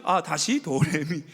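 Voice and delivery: slow calm tone. Shown as a demonstration. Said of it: "또 올라가면 다시".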